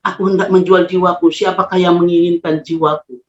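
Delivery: imitating an utterance in the lowest tone; retold low murmur. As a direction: voice dropped to a low tone. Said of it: "dengan nada paling rendah".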